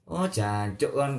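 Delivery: stretched swear word, not truly angry; coarse Surabaya cursing. Retold or imitated. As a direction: imitate casual rough Surabaya swearing, stretched out. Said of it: "Keras, kasar dengan".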